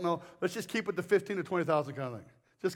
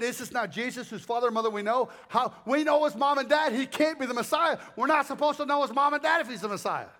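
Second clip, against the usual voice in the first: skeptical crowd; 3 semitones higher than usual. Retold or imitated. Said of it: "But they said".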